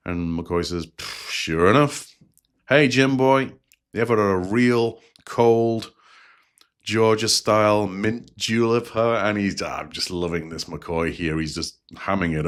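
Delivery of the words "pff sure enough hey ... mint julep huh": a hint of a folksy Georgia doctor, slow and relaxed; easygoing Georgia country doctor, only lightly imitated; Georgia country doctor accent. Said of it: "Georgia country doctor accent".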